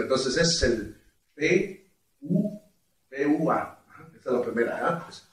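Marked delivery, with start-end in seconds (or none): 0.0-3.8 pua duck sound. Shown as a demonstration. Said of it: "Eso es lo que te sirve".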